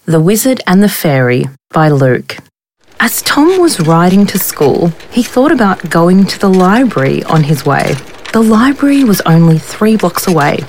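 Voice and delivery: gentle storyteller reading over music; story narration. A narrator's reading. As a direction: read it like a picture book to children. Story read aloud over music.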